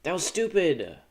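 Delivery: furious shout. Real, not acted. Gamer furious at his own Tetris misplay, loud shout. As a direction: yell at your own mistake.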